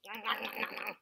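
understated cartoon munching; munching noises. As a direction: mimic a bug chomping away. Imitates the hungry grouchy ladybug munching.

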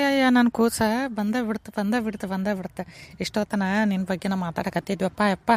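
softening, fading with emotion; tender. Acted. Mother welcoming her son home, tenderly fading. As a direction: dote on your child, voice sinking.

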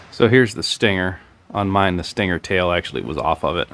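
talking with lips touching food; speaking around held snack; object held at lips. Real, not acted. Seen 1: Fingers hold small scorpion piece against his lips while speaking.

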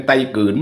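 ไตกืน with both t and k unaspirated; local pronunciation. Shown as a demonstration. Vlogger correcting toward the local name, ไตกืน in local pronunciation. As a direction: say ไตกืน with no puff of air on either consonant. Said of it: "เป็นไตกืนนะครับ".

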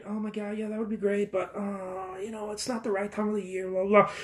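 soft, half-hearted mock excuse; reluctant excuse. Friend wriggling out of a Grand Canyon trip, reluctant. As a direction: back out quietly, trailing into excuses.

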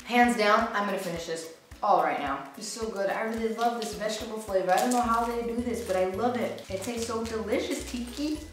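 speaking between bites; talking while chewing. Real, not acted. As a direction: mouth partly full of snack. Seen 0: Bites foil-wrapped puff stick at -1.0, talks while chewing after.

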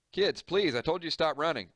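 put-on high, loud call after children; mother calling to her running children; calling to kids.

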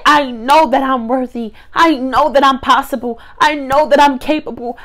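firm, loud declarations of faith; loud affirmation. Real, not acted. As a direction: proclaim each line like a preacher. Preaching self-affirmations.

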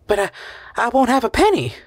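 high, faltering worry; hesitant dismay. Acted. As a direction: stumble on the start, then plead. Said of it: "She hesitated".

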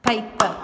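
"Paper" punched out as pay, per; split into syllables. Shown as a demonstration. Teacher asking for the first sound, "Paper" broken into syllables. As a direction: say "Paper" loudly in two distinct beats. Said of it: "What is the first sound?".

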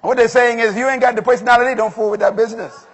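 punchy preacher driving the point; insistent sermon delivery; emphatic preaching. Real, not acted. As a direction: preach the moral firmly. Preaches the moral.

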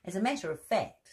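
lightly voiced, quick cub; a hint of a proud little bear; Baby Bear's voice.

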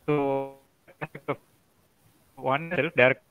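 choppy, breaking-up call line; words dropping out over a bad connection; robotic call audio. Real, not acted. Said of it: "your audio is breaking for me".

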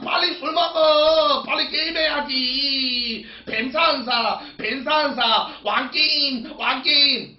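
hammed-up pushy friend; pushy drunk friend. Mocking the friend who pushed the drinking games. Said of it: "이 새끼가 그러는 거예요".

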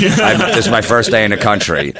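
a barely-there fake English accent; lightly faked English accent, dodging a woman at a bar; bad English accent. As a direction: faintly fake an English accent to dodge her. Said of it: "I put an English accent on".

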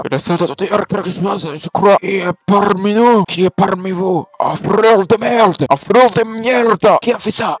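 put-on parrain éraillé à l'accent italien raté, haut et fort; voix de cancéreux. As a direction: force une voix malade de vieux mafieux, traînante. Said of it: "avec une voix de cancéreux". (voix de cancéreux forcée, haute et forte)

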